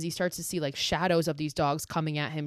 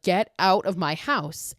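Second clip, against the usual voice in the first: slow, mildly raised mock yell; an understated retold order to leave; 4 dB louder than usual. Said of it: "yells at her to get out".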